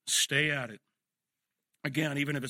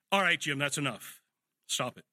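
firm dad voice. Retold or imitated. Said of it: "the authority of Dad's voice".

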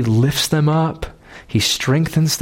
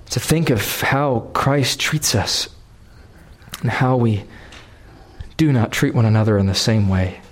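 prayer; 2 semitones lower than usual. Acted. Preacher leading the church in closing prayer, reverent. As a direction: pray humbly over the congregation.

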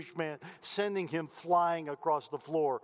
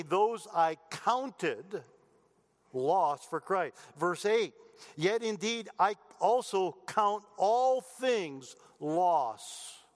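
scripture reading. Acted. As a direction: lean on each word of the verse. Reads scripture verses.

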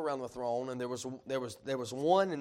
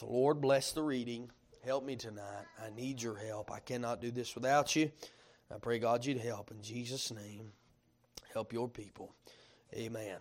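prayer; 2 semitones lower than usual. Real, not acted. Pastor asking God for help before preaching, prayerfully. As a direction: plead humbly for help, voice dropping away. Prays after the reading.

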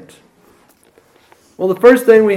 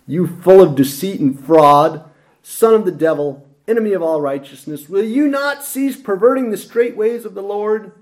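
mock rant; 4 semitones higher than usual. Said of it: "It's a sanctified rant".

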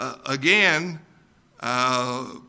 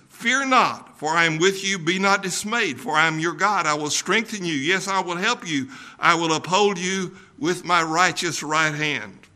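verse read out in a preaching voice; scripture reading. Acted. Preacher reading Isaiah to his congregation, solemn reading.

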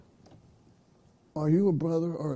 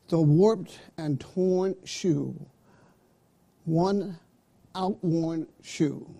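slow, deliberate "warped and torn shoe" as one phrase; one-item phrasing; slower than usual. Shown as a demonstration. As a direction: draw out WARPED and TORN together. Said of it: "Here's some more examples".

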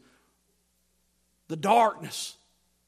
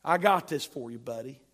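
mock casual Paul. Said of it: "Paul's not saying".

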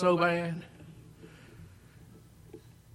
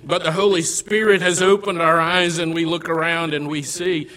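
loud, rising sermon build; fervent preaching; 3 semitones higher, 5 dB louder than usual. Acted. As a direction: preach it as a sinner's outcry. Preaching at full force.

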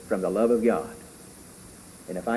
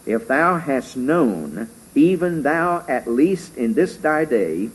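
scripture reading. Acted. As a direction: read it out like holy writ, measured.

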